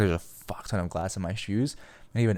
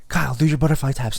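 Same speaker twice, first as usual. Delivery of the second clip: a bit louder, higher bossy command; mock order; 6 semitones higher, 5 dB louder than usual. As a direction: boss your buddy around, half joking. Bossing friend after crash.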